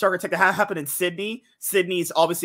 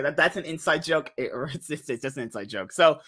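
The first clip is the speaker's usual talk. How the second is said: usual speaking voice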